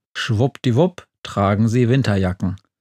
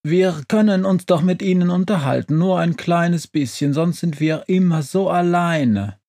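higher-pitched, coaxing little creature; pleading stove; 6 semitones higher than usual. A narrator's reading. Stove begging the witch for company, pleading.

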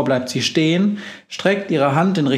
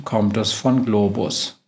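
plain reading voice

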